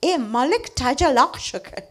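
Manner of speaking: put-on Kachi phrase said in a light English accent, laughing. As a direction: imitate the kids mangling Kachi with an English accent. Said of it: "in the English accent".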